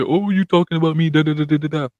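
mocking a complainer, trailing into da-da-da; mock complaint dissolving into rattled-off nonsense syllables; mock whining. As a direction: lightly imitate someone griping, then babble it away. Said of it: "he's gonna cry about that".

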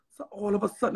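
hushed suspense whisper. Real, not acted. Storyteller whispering before the reveal. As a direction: drop to a whisper to build suspense.

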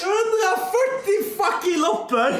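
slow emphatic shout; shrieking jackpot winner. Real, not acted. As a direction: drag it out, yelling. Big slot win celebration.

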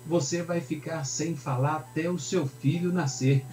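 measured, mildly stern declaration; pronouncing judgment. Acted. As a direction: hand down a sentence as the angel. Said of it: "apresenta juízo".

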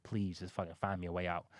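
low, soft desperate begging; praying for a way out, hushed and pleading; quiet pleading prayer. Retold or imitated.

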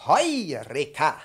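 slow, loud, stretched-out call; belted demo word. Shown as a demonstration. Professor demonstrating a loud stretched call. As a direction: ring it out slowly and loud. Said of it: "die Töne sehr hoch schmettern".

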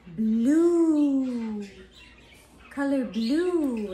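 loud squawked parrot word; the bird shrieks the color out. Real, not acted. Parrot squawking its answer to the owner, loud squawk.

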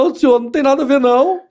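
put-on pitiful denial; poor innocent pleading. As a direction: plead like a harmless poor soul. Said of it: "eu faço cara de coitado".

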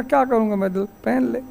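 softly tossed-off film line, acted; quiet dismissive retort. Officer in a retold series scene refusing a minister's offer, quietly dismissive.

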